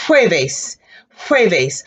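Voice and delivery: jueves with a strong puff of air on the J; breathy J in jueves. Shown as a demonstration. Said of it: "So if I say blow".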